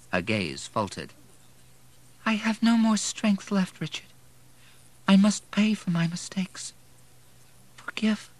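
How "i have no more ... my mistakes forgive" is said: high, whispery, weakening voice; failing, trailing off. A narrator's reading. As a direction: fade out as strength gives way. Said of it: "Her voice trailed off to a groan".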